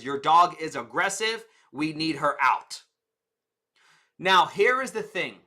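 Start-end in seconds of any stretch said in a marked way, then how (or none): 0.0-2.8 blunt receptionist. Retold or imitated. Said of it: "the frame that the receptionist put it in was".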